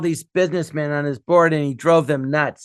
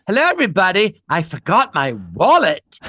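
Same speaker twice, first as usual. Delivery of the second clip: bright re-entrance; idiot tycoon; 2 semitones higher than usual. Retold or imitated. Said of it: "and then I come back in the room".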